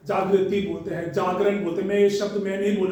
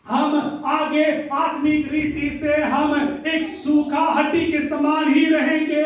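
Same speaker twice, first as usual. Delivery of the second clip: fervent preaching shout; 4 semitones higher than usual. Acted. Preacher rising to a climax.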